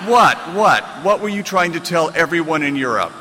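sharp loud outraged "What?", then she keeps going; furious shout. Retold or imitated. Livid publisher yelling at the author after the radio interview. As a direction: yell it at him like a boss who can't believe it. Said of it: "the publisher was just livid".

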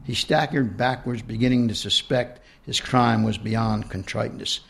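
reading her own book aloud; story narration. A narrator's reading. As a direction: read it out like an author at a reading.

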